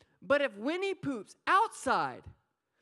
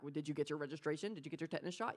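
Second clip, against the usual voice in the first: fussy parent; 6 semitones lower, 7 dB quieter, much faster than usual. Retold or imitated. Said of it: "I'm like a parent".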